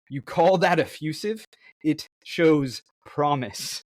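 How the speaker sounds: lightly acted haughty critic; toad critic's retort. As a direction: challenge it, then draw out the grudging praise. Reads toad critic's retort aloud.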